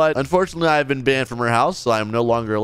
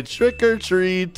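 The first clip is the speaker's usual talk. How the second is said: slow; 5 semitones higher, much slower than usual. Retold or imitated. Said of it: "I'm gonna say".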